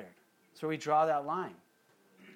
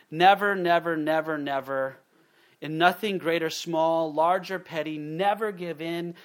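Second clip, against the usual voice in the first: rousing, much louder declaiming of never give in; hammering each never louder; Churchill quote; 5 dB louder than usual. Retold or imitated. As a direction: thunder it out like a wartime speech. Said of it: "It's a great Churchill quote".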